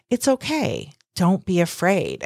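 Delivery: soft, gentle imitation of Margaret Cho; nurturing. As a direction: softly soothe a frightened friend. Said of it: "very kind of nurturing vibe".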